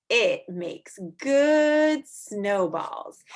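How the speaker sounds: slow, drawn-out read-aloud; reading to children. Acted. Teacher reading a snow book to kids, slow and clear. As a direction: read each line slowly to little listeners.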